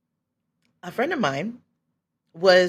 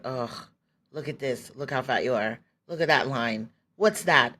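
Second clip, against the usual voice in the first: low, muted disdain, picking at flaws; mildly acted disgust at your own reflection; disgusted self-criticism; 4 semitones lower than usual. Voices her self-criticism at mirror.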